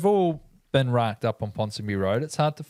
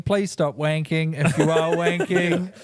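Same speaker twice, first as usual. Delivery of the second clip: mock captain's cabin announcement; 机长广播腔; 3 semitones higher than usual. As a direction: make a measured pilot's announcement, a little raised. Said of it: "This is your captain speaking".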